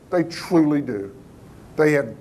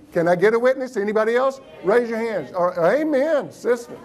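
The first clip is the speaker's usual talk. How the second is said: mock revival preacher; 5 semitones higher than usual. Plays revival preacher rousing the audience.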